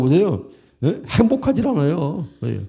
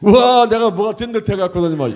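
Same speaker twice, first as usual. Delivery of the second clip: high, puffed-up self-admiration; playfully swollen-headed exclamation; mock conceit; 5 semitones higher than usual. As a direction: imitate a preacher getting full of himself. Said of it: "내가 교만일 것 아니야".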